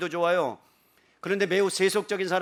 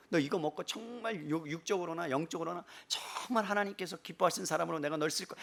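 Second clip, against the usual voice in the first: comforting; 5 dB quieter than usual. Acted. Jesus feeding Peter and promising to use him, comforting. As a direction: comfort him softly, stretching key words. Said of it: "그러면서 위로하잖아요".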